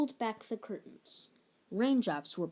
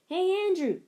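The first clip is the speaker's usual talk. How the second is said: calling out; 10 semitones higher, 6 dB louder than usual. A narrator's reading. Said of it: "he called".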